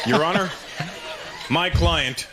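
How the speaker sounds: lightly acted solemn lawyer; serious courtroom lawyer. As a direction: address the judge with measured formality. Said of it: "Picture a serious courtroom drama".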